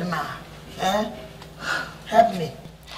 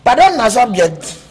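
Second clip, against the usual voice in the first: exasperated rant; 3 semitones higher, 9 dB louder than usual. Acted. Ranting about girls saying pardon.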